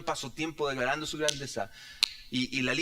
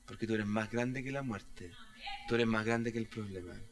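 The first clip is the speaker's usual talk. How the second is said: model prayer; 5 semitones lower, 7 dB quieter than usual. Shown as a demonstration. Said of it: "Yo, yo dijera".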